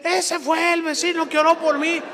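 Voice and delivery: high, loud announcement; imitating excited neighbour. Healed man pointing out who prayed, excited shout. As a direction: call it out to everyone, pitched high.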